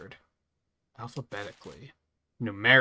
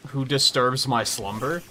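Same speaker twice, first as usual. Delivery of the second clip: booming ancient being; 2 semitones higher, 5 dB louder, slower than usual. Acted. Acting a grand awakened being.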